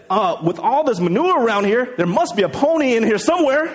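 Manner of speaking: lightly voiced hopeful kid, lifting at the end; optimistic boy. Positive boy expects a pony amid manure, mildly hopeful. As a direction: deliver it like a punchline from a hopeful child. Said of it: "the positive boy".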